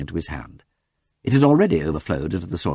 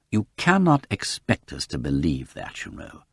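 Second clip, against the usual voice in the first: mild reprimand; 4 semitones lower than usual. Acted. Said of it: "an accent of reprimand as to an over-imaginative child".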